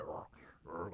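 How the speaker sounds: rolled rrr of struggle; low-key animal struggle noise; imitated bull growl. Imitates bull slinging dog.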